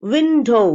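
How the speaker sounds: விண்டோ starting from rounded lips. Shown as a demonstration. Teacher modelling a W word for learners, lips rounded. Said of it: "இங்கேயும் வாய் round ஆயிரணும்".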